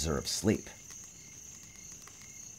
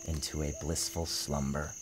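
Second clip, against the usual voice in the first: soft, fading; 6 dB quieter than usual. A narrator's reading. Drifting to sleep.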